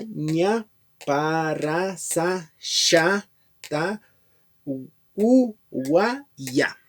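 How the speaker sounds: letters said one by one, slow and clear; alphabet recital. Shown as a demonstration. Reviewing the whole Quichua alphabet, one letter at a time. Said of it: "Recuerda, este es el abecedario".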